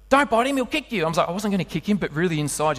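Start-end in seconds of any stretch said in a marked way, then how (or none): 0.1-1.0 1 neighbour's warning. Retold or imitated. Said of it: "she goes".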